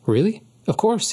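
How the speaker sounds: put-on high, bright eager boy; young lion thrilled to be asked out; eager excitement. A narrator's reading. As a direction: jump at the chance, thrilled. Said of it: "his eyes brightened".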